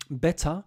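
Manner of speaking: "better" as "bet-tah", final r dropped; slow British "better" with no r; R not pronounced. Shown as a demonstration. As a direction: say "better" slowly, open vowel in place of the r. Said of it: "the R is not pronounced in the U K".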